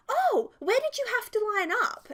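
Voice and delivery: a mock-confused mum voice. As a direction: play the mum who misunderstood. Mum misunderstands "lineup.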